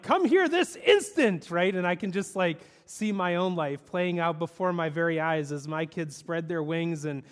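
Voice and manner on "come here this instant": high, loud, slow scolding; stern father command. Retold or imitated. Marlin scolding Nemo to come back, stern slow command. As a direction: order him back, every word firm. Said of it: "Marlin's like".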